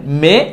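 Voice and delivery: মে with a plain e; wrong pronunciation. Shown as a demonstration. Teacher flagging the mistake, মে with a pure vowel. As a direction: end মে without an i glide. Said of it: "এটা ভুল উচ্চারণ".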